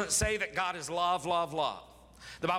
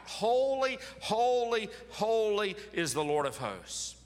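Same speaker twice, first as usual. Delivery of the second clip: crying out; 7 semitones higher, slower than usual. Retold or imitated. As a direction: call out the holies in awe. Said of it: "they were crying out".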